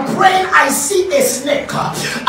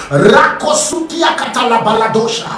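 lower, rapid flowing glossolalia; speaking in tongues; 3 semitones lower than usual. Real, not acted. Pastor praying over the congregation, speaking in tongues. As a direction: let unknown syllables pour out in prayer. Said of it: "I speak in the first syllabic tongues".

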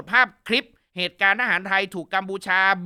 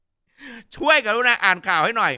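slow polite request; 5 dB louder, much slower than usual. Retold or imitated. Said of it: "บอกว่า".

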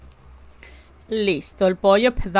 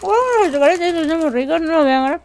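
aguda y más fuerte, tono de mimo exagerado; tristeza burlona; 7 semitones higher, 3 dB louder than usual. Acted. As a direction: hacele mimos en broma a quien llora. Finge tristeza hablándole a David. (voz aguda de consuelo burlón a David)

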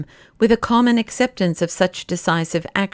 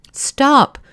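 louder, higher exclamation; sudden cry; 7 semitones higher, 5 dB louder than usual. A narrator's reading. Bull halts the professor's recitation with a sudden cry. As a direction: cry out abruptly, pitch jumping up. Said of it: "cried Bull suddenly".

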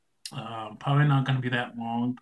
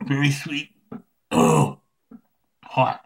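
talking around candy; sucking on lollipop; lollipop in mouth; 5 dB louder, slower than usual. Real, not acted. Seen 0: White lollipop stick sticks out of mouth while he speaks.

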